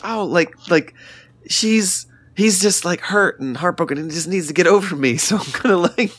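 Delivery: lightly put-on North Carolina accent, playing the ghost friend; terrible North Carolina accent. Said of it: "this is my terrible North Carolina accent".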